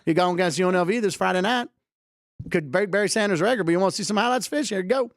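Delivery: put-on playful Southern good-old-boy talk; folksy mock-Southern accent. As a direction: talk like a Southern fisherman showing off highlights. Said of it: "I did a Southern accent for a guy who caught a fish".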